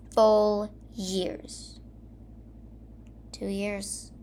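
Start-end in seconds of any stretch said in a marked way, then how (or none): 3.3-4.1 mumbled. Acted. Narrator mumbling over two lost years, softly. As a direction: mutter it to yourself in disbelief. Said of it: "I mumbled".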